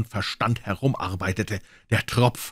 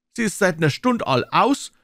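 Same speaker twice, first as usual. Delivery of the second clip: higher, louder complaint; grumbling old man; 10 semitones higher, 4 dB louder than usual. Acted. Old men complaining their pipes went out, high and loud. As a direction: grumble it out, indignant.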